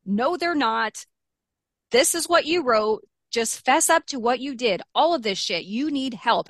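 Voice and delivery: a hint of yelling back at him; retold yelling back. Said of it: "I kept screaming back".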